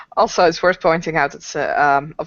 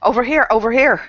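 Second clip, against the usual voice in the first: higher-pitched call to someone; 5 semitones higher, 3 dB louder than usual. Acted. Player voices Senna beckoning, calling out. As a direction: call out to wave them over. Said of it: "she'll probably be like".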